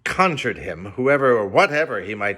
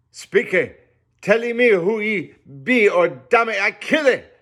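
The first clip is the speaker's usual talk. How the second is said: high, loud, slow menacing threat; growling cannibal; 12 semitones higher, 6 dB louder than usual. A narrator's reading. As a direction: threaten him in broken English. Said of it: "again growled the cannibal".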